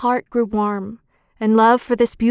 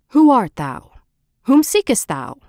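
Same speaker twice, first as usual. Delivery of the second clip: crying out. A narrator's reading. Narcissus calling to the hidden voice, mildly raised. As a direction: call out questions into the trees. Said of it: "Narcissus cried again".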